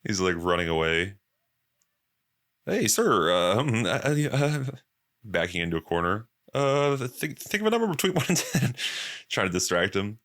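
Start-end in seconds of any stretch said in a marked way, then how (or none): 2.6-8.7 higher, flustered stammering; nervous stammer. Retold or imitated. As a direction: stall in a panic. Mentalist panicking, backing away.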